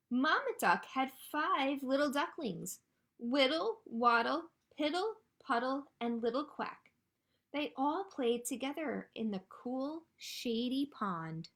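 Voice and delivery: lilting storytime read-aloud, names set apart; picture-book reading. A narrator's reading. Librarian introduces five little ducklings to children, lilting storytime reading. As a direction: introduce the little ducklings to young listeners, drawing out the last words.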